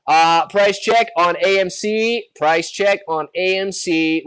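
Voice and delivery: slow store intercom price check; flat rote cashier. Pretend. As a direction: drone it like a bored cashier. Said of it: "sound like a cashier at Walmart asking for a price check".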